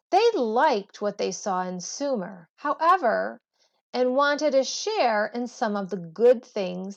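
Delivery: measured read-aloud textbook voice. Acted. Teacher reading the history book aloud to students, measured read-aloud. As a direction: read the passage clearly to the class.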